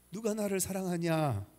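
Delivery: a touch of scoffing disbelief; incredulous. Retold or imitated. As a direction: scoff at the idea lightly. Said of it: "어이가 없다는 표정으로".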